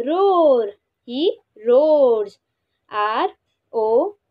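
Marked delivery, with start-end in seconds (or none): 0.1-0.7 drawn-out louder roar; roar imitation. Shown as a demonstration. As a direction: say it like a lion roaring. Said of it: "Lion sound is called as".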